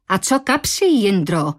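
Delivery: a light call to the manager. Acted. Dana calls to the manager, a light mock shout. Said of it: "křikla Dana".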